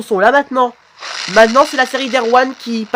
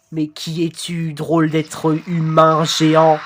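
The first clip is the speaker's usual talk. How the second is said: slow, monotone robot; robotic voice; 3 semitones lower, slower than usual. Acted. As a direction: question drawn out in an even robot drone. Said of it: "je voulais plutôt faire une voix robotique". (voix de robot lente et monocorde)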